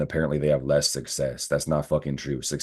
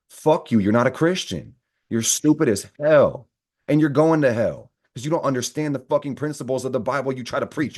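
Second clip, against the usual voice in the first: furious rant; 7 semitones higher than usual. Real, not acted. Ranting at judgmental Christians, furious and shouting. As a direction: tear into them, really fed up. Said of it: "I'm getting pissed".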